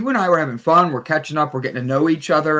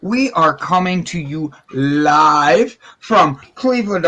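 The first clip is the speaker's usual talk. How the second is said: slow drawn-out ringmaster welcome; showman opening; slower than usual. Acted. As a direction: welcome them like a circus host. Show host opening.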